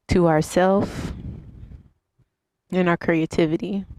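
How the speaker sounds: unhurried instructor cues with long pauses; guided yoga meditation. Real, not acted. Yoga teacher leads viewers through breathing and stretches, guided meditation. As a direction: guide them through each breath, leaving space between phrases.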